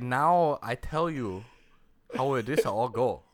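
mock Asian accent. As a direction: put on a drawn-out, exaggerated Asian accent. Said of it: "hoping that he talked like this".

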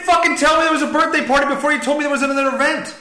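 loud, fast and heated; angry outburst. Real, not acted. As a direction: snap back in frustration.

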